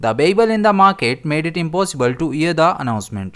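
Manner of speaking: each word of the sentence read very slowly and clearly; teacher dictating an example sentence. Shown as a demonstration. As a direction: read it out slowly so learners follow. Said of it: "हम इसे किस तरह use करेंगे".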